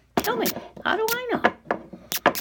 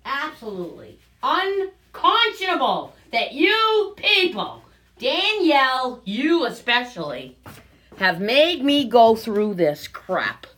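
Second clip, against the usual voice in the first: angry rant; 3 semitones higher, 5 dB louder than usual. Real, not acted. To Danielle and the viewers, a loud indignant rant. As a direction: scold them for making you go through this. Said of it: "I can't tell you how angry".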